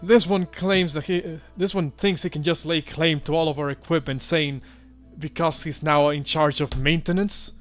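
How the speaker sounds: indignant sailor. Acted. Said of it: "and they kinda go".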